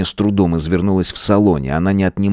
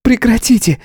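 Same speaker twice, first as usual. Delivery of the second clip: much higher sharp cry; shouting. A narrator's reading. Tanya shouts to stop the quarrel. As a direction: stop them. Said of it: "крикнула Таня".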